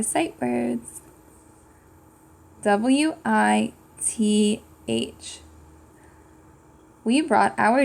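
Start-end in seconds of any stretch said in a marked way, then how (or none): 2.6-5.4 slow letter by letter "A N D"; slow spelled letters; spelling aloud. Shown as a demonstration. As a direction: spell each letter slowly for kids. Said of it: "How do we spell the word with?".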